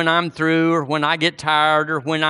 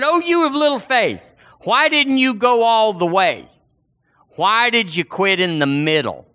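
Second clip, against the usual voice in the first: higher, pointed reproach; Jesus's rebuke; 5 semitones higher than usual. Retold or imitated. Jesus to a sinking Peter, a sharp rebuke. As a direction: chide him for giving up halfway.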